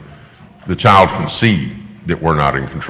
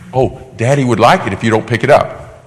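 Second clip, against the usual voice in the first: mock gentle pleading; 4 semitones higher than usual. Parody parent gently pleading with child.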